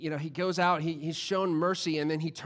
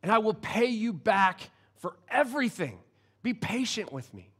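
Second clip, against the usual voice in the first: mild, pleading servant, a touch higher; begging; 4 semitones higher than usual. A narrator's reading. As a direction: plead gently for patience. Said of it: "he begged".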